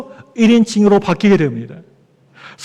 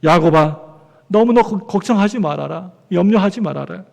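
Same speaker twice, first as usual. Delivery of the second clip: lightly voiced, quieter reassurance from God; God comforting Jacob; 3 semitones lower, 4 dB quieter than usual. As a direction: lightly play God soothing a worried man, voice falling away. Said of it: "하나님이 야곱에게 이렇게 말씀하세요".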